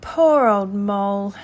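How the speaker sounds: a kindly word of sympathy; mildly sympathetic, leaning on the first words. A narrator's reading. Rat comforting hurt Mole, kindly. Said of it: "said the rat kindly".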